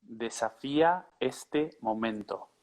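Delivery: slow, clear model phrase; slow and careful. Shown as a demonstration. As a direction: say it slowly for a learner to copy. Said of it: "I ask everyone to repeat this phrase".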